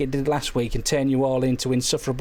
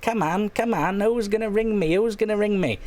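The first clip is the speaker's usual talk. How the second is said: higher, pleading call for callers; desperate pleading; 5 semitones higher than usual. Retold or imitated. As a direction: beg the audience to ring in, higher. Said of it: "I'm desperately clawing around and going".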